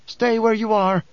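high-pitched, restrained shout; shouted order. A narrator's reading. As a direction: call out a threatening command. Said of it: "Skytail shouted".

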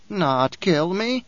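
lightly voiced haughty old priestess; a hint of a proud crone sneering at Paul; old Reverend Mother, disdainful.

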